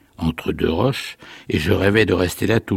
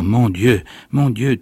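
rising, flustered cries, the second higher; joyful exclamation; 4 semitones higher than usual. Acted. The old man rushing about the room, overjoyed and flustered. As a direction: overcome with happy surprise.

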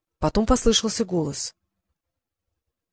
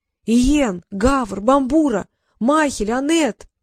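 calling out; 4 semitones higher, slower than usual. Acted. Calling lost friends in desert.

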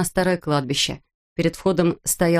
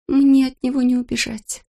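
panicked; 7 semitones higher than usual. Acted. Molly panicking.

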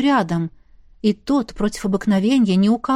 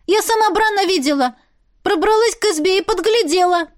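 much higher, eager telling; excited outburst; 8 semitones higher than usual. Acted. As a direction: blurt it out urgently. Enya keeps shouting evidence.

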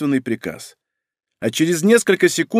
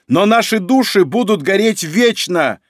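defiant cry; 3 semitones higher than usual. Acted. Battle cry while wrapped in lightning.

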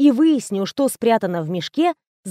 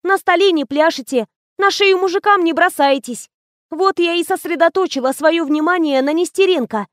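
put-on young assistant gossiping; 6 semitones higher than usual.

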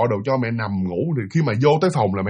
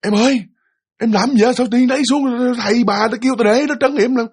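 calling out; 9 semitones higher than usual. Retold or imitated. Father crying out to his wife on the chair in alarm. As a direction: cry out to stop her. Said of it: "Ba ông mới la lên".

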